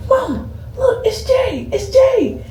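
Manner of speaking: high, giddy fan voice; starstruck excitement. Retold or imitated. Patient tells her mom about the nurse, giddy high squeal. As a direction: squeal it like meeting a celebrity.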